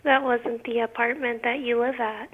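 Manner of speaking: quiet, over-deliberate correction; measured, condescendingly careful delivery; slowed-down talk. Real, not acted. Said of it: "Why are you talking like you're retarded".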